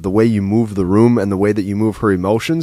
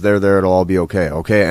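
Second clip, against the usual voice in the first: soothing dad; 3 semitones lower than usual. Retold or imitated. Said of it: "Dad looks at her and says".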